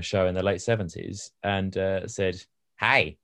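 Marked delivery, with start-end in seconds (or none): 2.8-3.2 put-on Australian accent. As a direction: call out "hey" in an Australian accent. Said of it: "that's my Australian accent".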